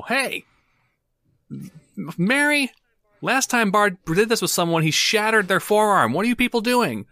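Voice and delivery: very high, small squeaky voice; a tiny creature piping up from the kitchen; tiny little voice. Acted. Small tavern owner calls out to Mary, tiny high voice. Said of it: "a tiny little voice go".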